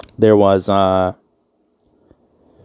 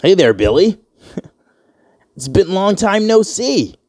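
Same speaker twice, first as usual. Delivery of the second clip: high-pitched, hammed-up white-guy hello; mock white voice; 9 semitones higher than usual. Man trying to pass as white greets Billy, mock white voice. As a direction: pitch it up into an overly chummy white-guy act. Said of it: "They're supposed to think you're white".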